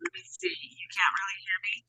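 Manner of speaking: tinny robot voice over a bad line; like talking inside a tin can. Real, not acted. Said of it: "You sound a bit like a robot".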